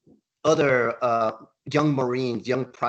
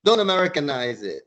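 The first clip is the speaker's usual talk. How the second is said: louder, higher correcting shout; retold yell; 6 semitones higher, 6 dB louder than usual. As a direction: bark the Spanish name back at him. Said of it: "we yelled at him".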